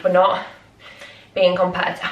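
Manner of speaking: breathless, words in bursts; out of breath. Real, not acted. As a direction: talk while catching breath. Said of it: "I'm so out of breath".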